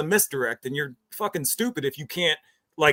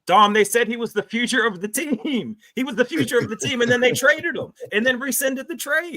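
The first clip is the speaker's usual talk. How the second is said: higher-pitched, incredulous protest; indignant disbelief; 5 semitones higher than usual. Real, not acted. Co-host protesting to Dom about the rescinded trade, indignant.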